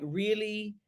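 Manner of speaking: ordinary delivery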